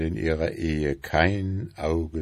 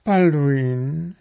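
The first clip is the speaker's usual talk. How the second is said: high-pitched, fussy wife voice, louder; nagging wife beetle; 10 semitones higher, 5 dB louder than usual. A narrator's reading. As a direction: pester him in a high, insistent voice. Wife calls husband.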